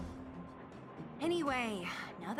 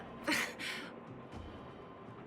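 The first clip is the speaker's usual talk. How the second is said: laugh; 5 dB quieter than usual. Acted. Amused reaction to being recruited.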